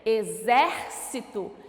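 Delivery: "Exército" slowly, leaning on "xér" said as "zér"; stressed "zér". Shown as a demonstration. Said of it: "som de Z".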